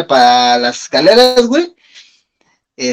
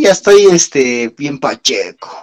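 slow, lazy stoned drawl; stoner voice; 2 semitones lower, slower than usual. Retold or imitated. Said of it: "¿cómo decía ese güey?".

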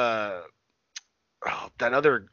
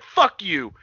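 raised-pitch mock outburst; mildly pissed off; 5 semitones higher, 3 dB louder than usual. Retelling a wrestler losing his temper on a show, mildly pissed off. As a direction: snap it like someone getting annoyed. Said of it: "he got a little pissed off".

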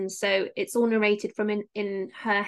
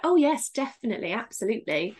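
people-pleasing agreement. Acted. She tells the person what they want to hear, mock people-pleasing. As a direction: play the agreeable part, lightly put on. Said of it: "trying to play the part".

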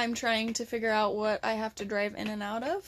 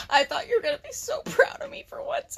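whispered aside; 11 semitones higher than usual. Real, not acted. Joking complaint, unvoiced.

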